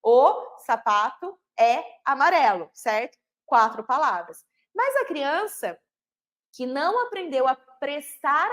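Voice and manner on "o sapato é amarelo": slow demo sentence. Shown as a demonstration. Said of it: "nós já sabemos que temos palavras ali".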